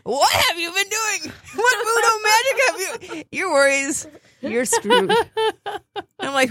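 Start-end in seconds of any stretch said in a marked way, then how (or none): 0.0-5.1 high squealing disbelief, slowed; hammed-up high shocked voice; mock horrified shriek. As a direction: shriek it in mock horror at the voodoo. Mock horror at friend's worry dolls.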